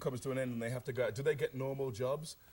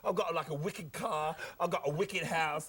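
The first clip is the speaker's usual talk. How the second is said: Cockney hustler. Acted. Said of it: "Delbert Wilkins talks like this".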